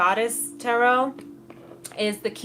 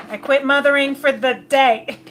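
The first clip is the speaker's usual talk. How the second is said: loud, higher, fed-up outburst; mock tired mom at the end of her rope; exasperated mother; 5 semitones higher, 8 dB louder than usual. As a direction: throw up your hands, done with mothering. Fed-up mother quitting for day.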